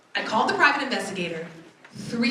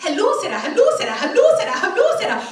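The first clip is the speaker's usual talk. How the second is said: higher and louder, building up; chorus of greetings; 9 semitones higher, 8 dB louder, faster than usual. Retold or imitated. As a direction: pile on the hellos, growing. Chorus of relatives calling.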